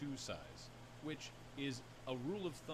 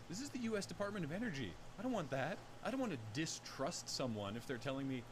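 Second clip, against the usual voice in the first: higher and louder indignant rant; mock outrage; 5 semitones higher, 4 dB louder than usual. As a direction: protest in a hammed-up outrage. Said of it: "mock outraged rant".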